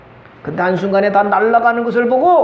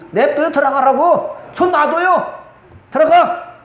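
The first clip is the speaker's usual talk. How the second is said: slower, higher, insistent let-her-go; emphatic retort; 6 semitones higher, slower than usual. Retold or imitated. Preacher telling mourners to let the daughter go, insistent and higher. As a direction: push it, daring her to jump in. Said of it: "내가 그랬다니까요".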